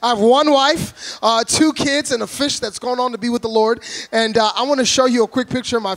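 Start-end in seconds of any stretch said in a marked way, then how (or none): 0.0-1.2 ONE punched higher and louder; stress on ONE. Real, not acted. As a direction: hit the word ONE. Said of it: "I like to be specific".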